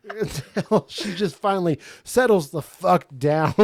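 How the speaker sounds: a villain's pitch broken by laughter; laughing villain voice. Retold or imitated. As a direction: laugh through the whole line.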